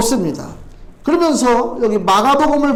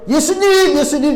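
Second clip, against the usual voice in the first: high, raised cry to Jesus; calling out; 6 semitones higher than usual. Acted. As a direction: call out urgently, pitch leaping up. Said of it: "지금 외치는 거예요". (높은 목소리로 간절히 외치기)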